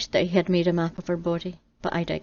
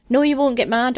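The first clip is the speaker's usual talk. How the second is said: louder, higher pointed correction; sarcastic; 5 semitones higher, 6 dB louder than usual. Acted. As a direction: spell it out to him, pointedly. Eve explains her no.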